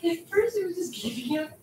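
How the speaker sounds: talking too fast. Acted. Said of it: "If you talk that fast".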